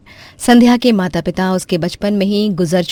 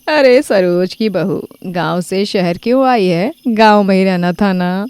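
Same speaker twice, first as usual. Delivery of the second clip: mocking neighbour. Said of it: "पड़ोसन गीता मजाक बनाने लगती है".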